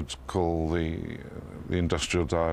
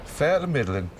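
higher, cheerful Northumbrian dialect reply; Pitmatic reply; 8 semitones higher, 4 dB louder than usual. Shown as a demonstration. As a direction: answer like an old Ashington pitman. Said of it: "And the answer is".

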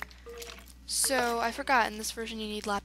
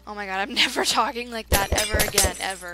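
loud laughing through the words; 3 semitones lower, 6 dB louder than usual. Real, not acted. Gamer embarrassed by own silly voice, laughing. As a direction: crack up at yourself while talking.

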